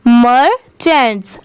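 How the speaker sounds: मर्चेंट्स slowly as मर-चेंट्स; syllable by syllable. Shown as a demonstration. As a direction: draw out both parts of मर्चेंट्स, ending on s. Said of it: "last में स की sound ज़रूर आएगी". (मर्चेंट्स को धीरे, दो हिस्सों में बोलें)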